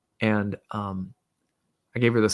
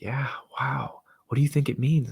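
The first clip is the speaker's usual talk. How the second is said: whispered wonder; 4 semitones higher than usual. Retold or imitated. Daughter wondering about the sign with dad, whispered. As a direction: whisper it like a curious child.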